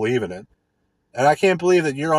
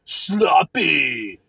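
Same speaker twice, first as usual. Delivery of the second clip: mocking a guitarist; 2 semitones higher, slower than usual. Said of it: "'cause you're like".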